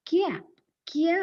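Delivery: "ക്യാപ്" with a y glide, then "ക്യ" alone; intrusive y. Shown as a demonstration. Teacher showing the sound that is not needed, intrusive y. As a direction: isolate the unwanted "kya" at the start of "ക്യാപ്". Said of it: "അതിൻ്റെ ആവശ്യം അവിടെ ഇല്ല".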